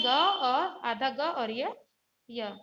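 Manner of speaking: slow, deliberate build-up of the letter parts; slow breakdown. Shown as a demonstration. Teacher showing pupils how the letter is built, slow. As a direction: take the letter apart piece by piece, slowly. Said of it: "देखिए कैसे मिला है".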